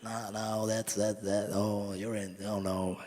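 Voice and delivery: lightly voiced, hesitant turtle; turtle-like conductor. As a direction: mildly imitate a dithering turtle, halting between words. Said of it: "he sounds like a turtle".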